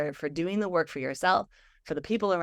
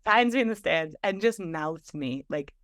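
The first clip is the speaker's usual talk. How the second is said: choked up. Real, not acted. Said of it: "I'm gonna cry telling the story".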